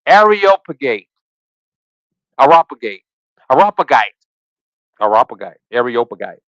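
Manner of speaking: trying "Areopagite" several ways, ending AIR-ee-OP-a-guy; testing how to say "Areopagite"; unsure pronunciation. Real, not acted. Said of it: "I don't know how you say it".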